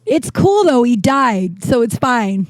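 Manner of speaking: high casual brush-off; light tone over dark news; mock carefree reassurance; breezy deflection. Breezy dark joke to room.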